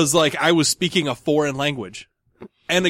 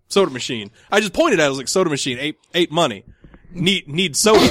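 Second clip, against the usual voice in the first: broken-English repeat. Retold or imitated. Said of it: "so I repeated myself".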